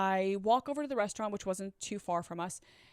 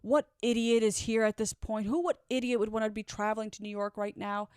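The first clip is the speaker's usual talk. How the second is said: complaining; 4 dB louder than usual. Retold or imitated. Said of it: "Pan's complaining the whole time".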